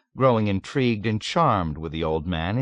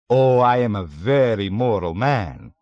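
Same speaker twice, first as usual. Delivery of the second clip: satiric seriousness; 2 semitones higher, 5 dB louder than usual. A narrator's reading. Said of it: "with satiric seriousness".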